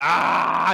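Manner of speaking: crying out in pain. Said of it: "He's in pain".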